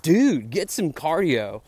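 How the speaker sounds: slow, deliberate mock-manager advice; quoting manager. Retelling the band manager's blunt advice, slow mock voice. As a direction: drag it out like a blunt tip. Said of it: "our manager said".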